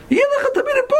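the cabbie pleading, voice jumping up high; excited exclamation. Retold or imitated. Driver urging him to move here.

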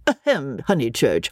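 a half-hearted mock throat-clear and name; indifferent mimic. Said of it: "Freddie was an indifferent mimic".

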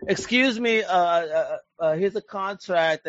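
high, eager mock executive; Netflix exec voice. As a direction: fawn over the writer, a little breathless. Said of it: "They're like".

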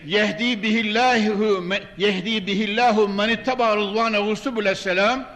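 ordinary talk, nothing marked

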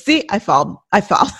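laughing through a pretend whiny baby line. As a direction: try to stay in the baby voice but crack up.

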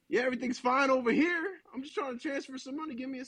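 nervous reassurance. Retold or imitated. To the stranger asking if everything's okay, high nervous calm. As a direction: sound extra fine while clearly rattled.

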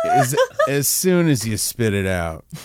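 imitating a gruff monologue; deep grumbly voice. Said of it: "someone with a deep, grumbly voice goes".

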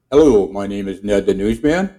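lightly voiced newscaster; newsman voice. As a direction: sign off the broadcast like a radio host. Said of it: "And this is Ned the newsman".

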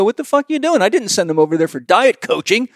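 high, angry mock rant from a doctor; angry doctor chewing out. Doctor on the phone chewing him out, high angry rant. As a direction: mimic a furious doctor yelling down the phone. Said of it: "chew me out and go".

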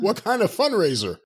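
asks again through a laugh; half-laughing question; amused repeat of the question. Real, not acted.

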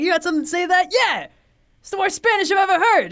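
a hint of a mocking mobster; Penguin taunt. Podcaster imitating Penguin taunting cops, mild sneer. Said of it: "the performance from Penguin specifically".

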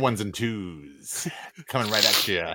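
light on-air DJ intro; hint of a hammy radio host. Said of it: "the speaker sounding like a F M D J".

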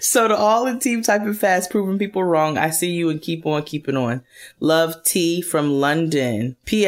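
a light put-on London accent while reading; mock British accent. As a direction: read it in a playful fake British voice. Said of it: "work on this accent".

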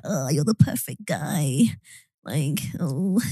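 slow, breathy put-on moan. A hint of mock moaning. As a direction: moan it slowly like a swooning fan. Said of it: "Why do you talk like that?".

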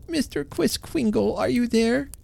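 calling out. A narrator's reading. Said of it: "Then he cried".

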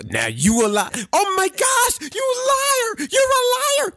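high, shrieking mock accusation; shrill overlapping reality fight. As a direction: screech it like a reality show fight. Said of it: "That's what you did to me earlier".

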